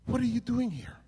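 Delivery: high-pitched, startled retelling of the officer; incredulous question. Retold or imitated. Officer to the arrested young man in the van, incredulous. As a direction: act out a taken-aback officer, pitched high. Sheriff's officer shocked at seeing him.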